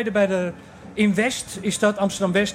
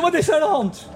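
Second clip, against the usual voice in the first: alarmed sister; 5 semitones higher than usual. Retold or imitated. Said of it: "Die zegt".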